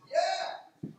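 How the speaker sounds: high-pitched, insistent "yeah"; emphatic confirmation. Retold or imitated. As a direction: answer as if it's beyond any doubt. Retells scientist's emphatic confirmation.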